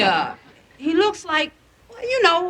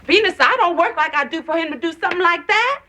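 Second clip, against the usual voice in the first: quick, higher-pitched protest; indignant mother; 6 semitones higher, faster than usual. Acted. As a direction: protest it fast, hurt and indignant. Mother upset about son quitting.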